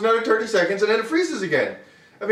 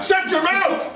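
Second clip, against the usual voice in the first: laughing; 9 semitones higher, slower than usual. Real, not acted. Mock scolding with laugh.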